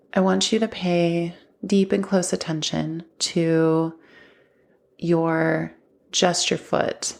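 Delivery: calm, measured grounding guide with long pauses; guided meditation. Acted. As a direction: guide the listener gently, leaving space between phrases.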